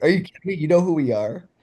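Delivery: can't believe he knows us; starstruck disbelief. Retold or imitated. Fan stunned his idol recognizes him, high excited disbelief.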